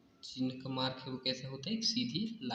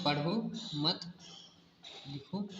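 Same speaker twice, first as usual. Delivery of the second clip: "पढ़ो मत" as one group, long break, then "लिखो"; pause after मत; slower than usual. Shown as a demonstration. Teacher shows the reversed meaning, pausing right after "मत". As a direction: run "पढ़ो मत" together, stop, then set "लिखो" apart. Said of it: "लिखने को कहा जा रहा है".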